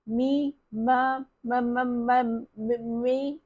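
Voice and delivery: put-on a scared boy shaking as he tries to speak; trembling with fear. A narrator's reading. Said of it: "थरथर कापत म्हणू लागला".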